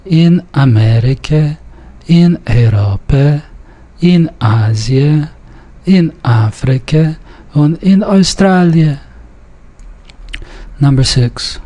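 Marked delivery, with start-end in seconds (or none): 0.0-9.0 measured list reading, Amerika stressed on "me", Europa said "ey-RO-pe"; careful Yiddish reading, Australia said "oy-STRA-lye"; Yiddish pronunciation model. Shown as a demonstration. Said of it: "observe the stress where it's indicated".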